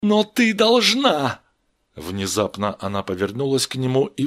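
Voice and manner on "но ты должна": high, loud, drawn-out demand; insistent shout. Acted. Steve insists to weeping Vera, shouting slowly. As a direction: stretch it out as a desperate order. Стив настаивает, умоляя.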